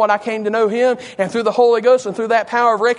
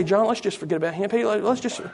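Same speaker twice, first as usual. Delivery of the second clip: mildly dismissive, soft aside; 7 dB quieter than usual. Acted. Imagined Peter telling John to forget the man, soft and dismissive. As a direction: quietly suggest walking off. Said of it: "He didn't say".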